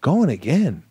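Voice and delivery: mock-offended actor's reaction; incredulous echo. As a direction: question it as if deeply wounded. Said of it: "in my head, I'm like".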